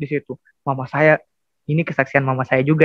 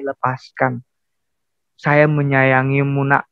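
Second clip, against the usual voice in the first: tender, fatherly; 3 semitones lower, slower than usual. Retold or imitated. God comforting a new believer in church, tender. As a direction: voice God gently, drawing out the words.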